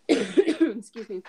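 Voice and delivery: ordinary talk, nothing marked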